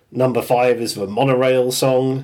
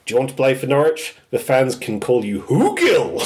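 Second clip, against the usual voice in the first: quick and light imitation of a football manager; mild impression of the Norwich manager; imitating Daniel Farke. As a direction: toss it off fast like the manager. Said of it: "Norwich manager at the time".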